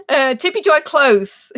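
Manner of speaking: eager encouragement to a player; upbeat guess confirmation. Real, not acted. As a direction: cheerfully tell them they're close. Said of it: "No. Actually, no".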